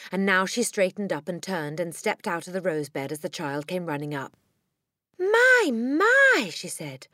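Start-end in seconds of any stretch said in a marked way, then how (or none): 5.2-6.5 high, loud exclamation; startled concern. Acted. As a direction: exclaim in astonishment at the child. Teacher startled by running child.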